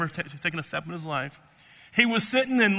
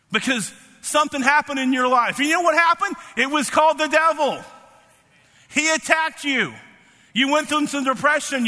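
higher-pitched, forceful pulpit delivery; impassioned preaching; 4 semitones higher than usual. Real, not acted. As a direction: preach it with rising urgency to the congregation.

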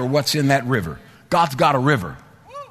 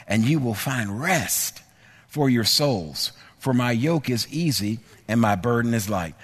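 gentle voice of Jesus; 4 semitones lower than usual. Retold or imitated. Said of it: "Jesus said this".

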